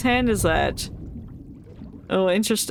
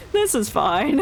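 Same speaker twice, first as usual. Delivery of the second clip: laughing. Real, not acted. Laughing at the ship exploding.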